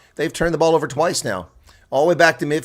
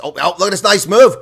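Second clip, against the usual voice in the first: higher and louder sudden burst of delight; excited call; 6 semitones higher, 8 dB louder than usual. Real, not acted. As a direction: jump on the move with a shout of praise. Sudden attacking move.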